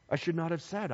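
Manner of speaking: soft, acted-out remorse; a touch of regret; regretful. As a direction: quietly take it back. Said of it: "he regretted it".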